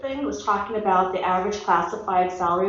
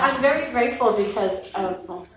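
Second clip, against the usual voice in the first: stumbling over words; halting, stuttering speech. Real, not acted. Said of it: "all right, I'm stuttering here".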